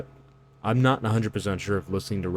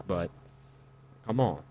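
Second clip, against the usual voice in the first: ordinary talk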